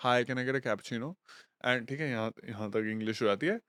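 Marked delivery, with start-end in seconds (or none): 0.1-1.1 put-on Bandra English accent. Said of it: "उसके बाद बांद्रा जाके".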